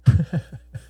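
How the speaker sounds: short open laugh with the head thrown back; a quick burst of laughter. A narrator's reading. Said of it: "Robert threw back his head and laughed".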